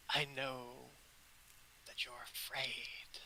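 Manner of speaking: hushed, unvoiced comfort; soft whisper; whispered goddess. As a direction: whisper it gently to frightened children. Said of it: "she says".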